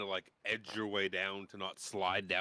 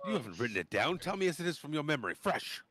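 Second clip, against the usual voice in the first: put-on higher, insistent old fellow; Dalamar voice; 6 semitones higher, 4 dB louder than usual. Dalamar refusing the written story, high insistent voice. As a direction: cut him off eagerly, wave the book away.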